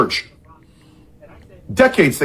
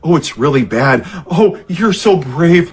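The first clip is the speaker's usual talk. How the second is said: mock small talk. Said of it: "what they're talking about".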